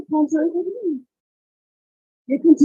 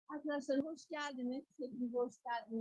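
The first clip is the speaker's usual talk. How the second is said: muffled; 8 dB quieter than usual. Real, not acted. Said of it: "Her sound is very muffled".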